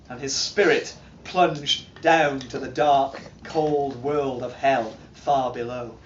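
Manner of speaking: solemn saga teller with sweeping highs and lows; grave epic recital, rising and sinking; dramatic reading. Acted. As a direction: tell it like an old legend to a listening hall. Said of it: "doing a dramatic reading".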